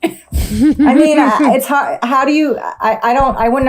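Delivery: speaking through coughs; coughing between words; coughing fit. Real, not acted. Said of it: "Sorry, I'm coughing so much".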